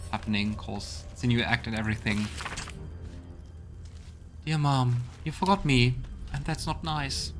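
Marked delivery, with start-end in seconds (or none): 4.4-7.3 put-on higher-pitched, hurt little child voice; lost child's letter. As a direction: read it as a child pleading for Mom. Reads a child's letter to Mom.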